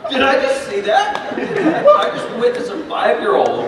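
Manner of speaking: high-pitched, laughing disbelief; amazed laughter. Retold or imitated. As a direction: squeak it out through laughter. Acts out amazed reaction, laughing.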